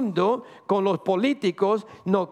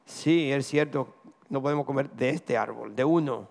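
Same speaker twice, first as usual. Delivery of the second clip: Eve's reply; 7 semitones lower, 4 dB quieter than usual. Acted. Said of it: "Y Eva le dijo".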